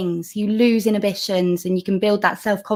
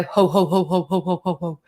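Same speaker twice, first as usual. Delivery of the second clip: steady, even run of spoken "ho"; ho-ho laughter sound; 2 semitones lower than usual. Shown as a demonstration. Coach showing what they will do together, ho-ho laughter. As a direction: chant "ho, ho, ho" in a regular beat. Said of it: "just keep it going".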